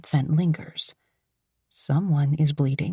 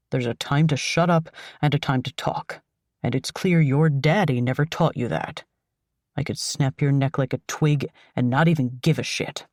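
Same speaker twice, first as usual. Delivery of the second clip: lightly lowered, cold thug voice; menacing kidnapper; 3 semitones lower than usual. Acted. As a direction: lay out the threat calmly, like a bored killer. Narrator voicing the kidnapper.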